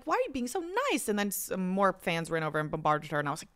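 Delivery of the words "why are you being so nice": high, fast and breathless with delight; high, fast gushing. Retold or imitated. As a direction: rush it out, overwhelmed by kindness. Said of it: "And I'm like".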